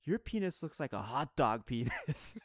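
put-on child's loud remark. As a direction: spell it out like a blunt little girl. Child loud in change room.

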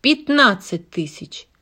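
shouting. Acted. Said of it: "выкрикнул".

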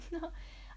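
short, soft, high giggle; small amused giggle. Acted. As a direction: give a quiet little high laugh. Amused daughter caught out on phone.

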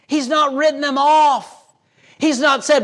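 emphatic preaching. Acted.

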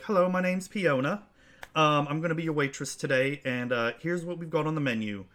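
a bright little server rattling off the specials; halfling waitress. Acted. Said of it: "she introduces, like".

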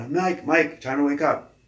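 mock wake-up call through the door. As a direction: rouse a sleeping guy, half-shouting. Calling out to wake Mike.

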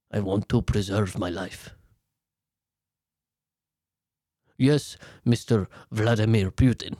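low, hushed, frightened aide; scared aide. Retold or imitated. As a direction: cower and murmur like a terrified aide. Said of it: "And then Vasil's just like".

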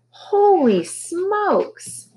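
very high, slow startled squawk; drawn-out high bird cry; squawking parrot. A narrator's reading. Parrot exclaims at flashlight.

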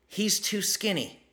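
high, slow mock complaint; drawn-out high-voiced objection, imitated; imitated complaining wife. Quotes client's worried wife.

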